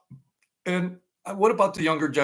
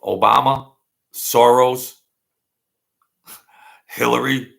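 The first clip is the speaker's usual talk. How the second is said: scornful call-out; 8 dB louder than usual. Real, not acted. Shouting out opponents' names.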